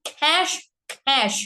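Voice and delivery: aspirated nasal demo; nasal aspirated খ্যাস. Shown as a demonstration. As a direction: say "খ্যাস খ্যাস" breathy and nasalised, not ক্যাশ. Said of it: "এইভাবে".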